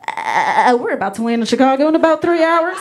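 hint of a breathy pop singer as flight attendant; light cabin announcement voice. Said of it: "sound like a flight attendant".

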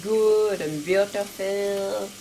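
slow, playful fake French accent; mock French accent. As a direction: drawl it out in a light French accent. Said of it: "I decide to become French".

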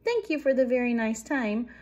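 storybook mouse calling back; squeaking. A narrator's reading. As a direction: call a polite farewell while fleeing. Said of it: "squeaked Annie".

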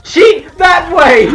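high, slow, loud cartoon shout; cartoon yell. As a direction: belt it like a cartoon. Mock SpongeBob yell.

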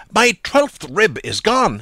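slow, high, loud mock cry; mock alarm. A narrator's reading. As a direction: play the fake alarm big and drawn out. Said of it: "he cried".

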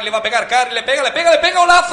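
rising rapid-fire build to goal; breakneck goal commentary. Real, not acted.

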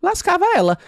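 high, sudden outraged punchline; indignant exclaim. Real, not acted. Telling Paula how the dancer got screwed, high and outraged. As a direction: spike up in disbelief.

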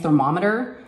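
"thermometer" with a clear M in the middle; careful standard "thermometer", M not N; pronounced with M. Shown as a demonstration. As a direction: say "thermometer" as ther-MOM-eter. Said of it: "with an M".

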